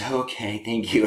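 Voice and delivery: soft, relieved little reply, acted; soothed husband. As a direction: play a husband quietly accepting reassurance. Husband responds to being reassured.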